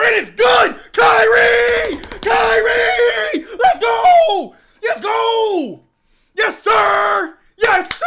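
huge high celebratory yells; ecstatic shouting. Real, not acted. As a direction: scream with pure joy at the bucket. Celebrating Kyrie's shot.

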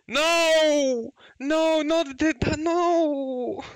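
high, drawn-out cry of no; agitated protest. Real, not acted. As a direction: protest loudly in real disbelief. Crying out at an unwanted pull.

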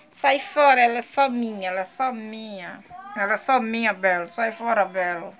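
lightly voiced low, possessive grumble; possessive dog's voice.

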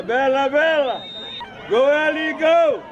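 shouting. Real, not acted. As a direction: yell her name from the sideline. Cheering player from sideline.

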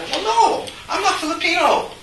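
playful mock pride in being Southern Chinese; laughing mock protest. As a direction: protest in jest, cracking up. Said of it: "You get called Asian".

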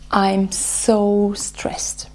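breathy whispered confession of stress; slow stressed whisper. Shown as a demonstration. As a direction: whisper it slowly, as if admitting it. Voicing stress in tapping round.

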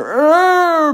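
long, high, loud straining "errr"; drawn-out effortful strain noise; straining growl. Acted. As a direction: groan with effort like a pump pushing hard. Ventricle straining to pump harder.

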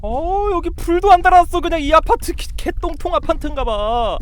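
high-pitched, scared whining; frightened complaint. Real, not acted. Player stuck in an unlit apartment, frightened complaint.

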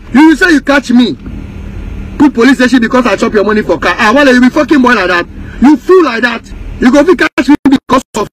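loud, fast furious tirade; real rage at a rival who called the police; angry shouting. Real, not acted. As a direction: yell the insults right at him. Ranting straight at Shatta Wale.

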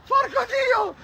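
high, furious yells at the empty street; furious shout. Acted. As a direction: scream it out, completely charged up.

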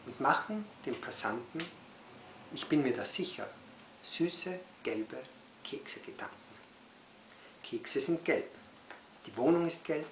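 unhurried phrases parted by pauses; poem recital. Acted. Poet reads cookie poem to children, poem recital.

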